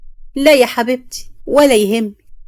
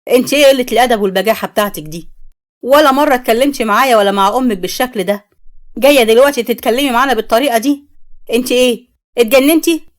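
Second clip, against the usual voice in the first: angry scolding; 4 dB louder than usual. Acted. Father scolds Mai furiously.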